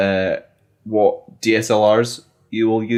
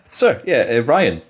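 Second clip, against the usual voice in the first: salesman voice; slower than usual. Pretend. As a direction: pitch it like a keen salesman. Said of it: "salesman voice on".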